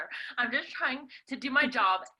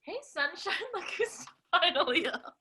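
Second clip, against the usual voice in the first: grandma exclaiming; 5 semitones higher than usual. Acted. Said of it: "exclaimed Grandma Ninoy".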